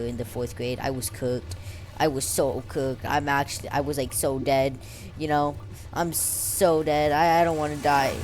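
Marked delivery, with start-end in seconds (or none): 5.9-8.1 overdramatic fake despair; hammed-up doom, slowed down; dramatic. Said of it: "I'm being dramatic".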